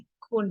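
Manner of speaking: teacher stretching คุณ out for the class; very slow model. Shown as a demonstration. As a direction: draw คุณ out slowly and gently. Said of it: "in Thai, we say".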